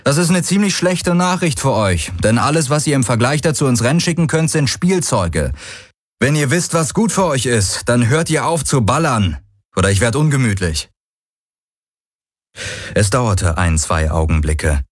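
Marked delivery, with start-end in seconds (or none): 0.0-10.9 raised, fast taunting threat; a fuming rebel telling them off; angry cocky hero. Acted. Hero's threatening broadcast.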